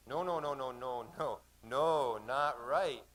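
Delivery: rapid string of objections, then emphatic; acted firm veto from a local pilot; insistent refusal. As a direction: pile up the noes, then land it. Pilot refuses the suggested anchorage.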